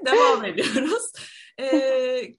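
breathless laughter-choked voice; after laughing hard. Real, not acted. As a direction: still recovering from a laughing fit. Still laughing after joke.

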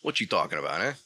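low Brooklyn tough-guy voice; Brooklyn accent. Acted. Co-host riffing on angry talk, low Brooklyn accent. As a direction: challenge them in a put-on Brooklyn accent. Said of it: "sounding like I'm straight from the middle of Brooklyn".

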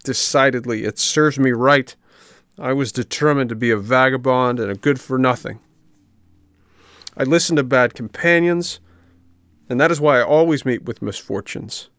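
high, plaintive puppet lament; tearful regret, voiced in earnest; crying. A narrator's reading. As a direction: wail with self-reproach, pitch lifted.

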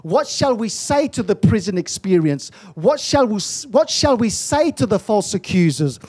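rising preacher's cry over music, building line by line; preaching at full force. Real, not acted. Preacher stirs the congregation, preaching hard over the music. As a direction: hammer each question home to the church. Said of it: "I feel like I'm shouting this morning".

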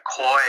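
"coy" for cow, Ulster style; Northern Irish "coy"; Northern Irish vowel. Shown as a demonstration. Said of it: "You'd be looking for a kind of coy".

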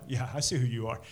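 lightly smug, looking down the nose; a hint of superiority with the nod; mild mock condescension; condescending nod voice. Shown as a demonstration. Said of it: "I'm looking down my nose at you".

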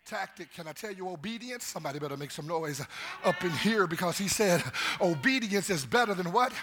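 rising preacher's cadence, pushing the crowd; preaching. Acted. Pastor preaching to the church, rousing. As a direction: preach it to the congregation.

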